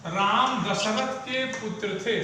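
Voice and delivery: slow, clear reading of राम दशरथ के पुत्र थे; teacher reading an example sentence slowly. Shown as a demonstration. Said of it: "जैसे अगर हम कहें".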